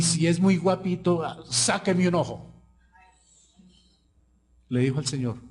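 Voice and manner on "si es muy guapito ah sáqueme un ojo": higher-pitched, mildly angry dare to God; acted-out resentful taunt; retold angry challenge. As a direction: imitate a man defiantly daring God. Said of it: "yo estaba con rabia".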